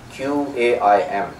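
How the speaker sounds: Q A I M spelled slowly, each letter separate. Shown as a demonstration. Spelling the title aloud to the congregation, slow and deliberate. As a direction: spell Q A I M out slowly instead of saying the word. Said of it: "I just spelt it".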